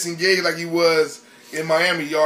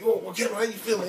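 mock chirpy reporter; 5 semitones higher, 3 dB quieter than usual. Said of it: "He's like".

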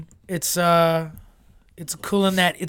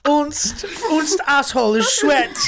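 high laughing fake German accent; 9 semitones higher, slower than usual.

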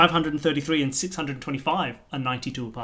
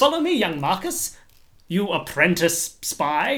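spy mentor voice; slower than usual. Acted. Leader voicing his character.

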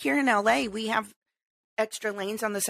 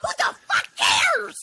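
entitled rule-breaker; 3 semitones higher than usual. Retold or imitated. Mocking the entitled driver who breaks rules, haughty put-on voice. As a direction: sneer like someone who thinks they're above the rules. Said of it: "And you're like".

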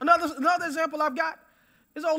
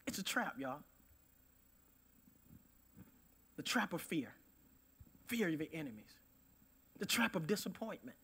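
low, very soft preaching; hushed warning; 4 semitones lower, 11 dB quieter than usual. Real, not acted. Preacher warning the congregation about traps, hushed warning. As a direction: drop right down and warn them gently. Solemn warning after the climax.

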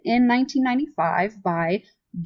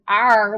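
pirate arr; 5 dB louder than usual. Retold or imitated. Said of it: "some guy said".

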